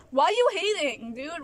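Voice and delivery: loud, high-pitched frustrated question; exasperated demand. Real, not acted. Vlogger confronting people who mock her dancing, exasperated.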